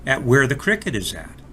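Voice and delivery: put-on gentle read-aloud storyteller for kids; expressive picture-book reading; storybook narration. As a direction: tell it like a bedtime story to small children. Reads a children's story aloud.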